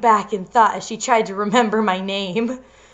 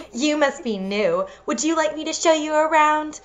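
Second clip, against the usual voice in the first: put-on valley girl cheerleader; 4 semitones higher than usual. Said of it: "bitchy cheerleader voice".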